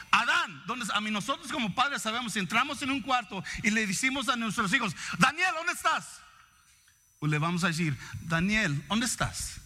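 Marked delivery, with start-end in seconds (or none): 0.1-1.0 a touch of harsh demand. Retold or imitated. God imagined calling Adam harshly, a mild stern demand. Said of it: "Y no dijo". 5.2-6.2 higher, sharp parent call of the name; angry parent call. Retold or imitated. Parent entering a room calling the son, sharp angry call. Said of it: "Nomás en el tono". 8.2-9.5 gentle parent call. Retold or imitated. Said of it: "Nomás en el tono".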